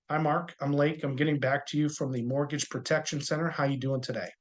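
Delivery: relaxed, easy phone greeting; calm, unhurried and friendly; low and slow. Shown as a demonstration. Agent greeting Mark on the phone, relaxed. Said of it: "you wanna keep it low and slow".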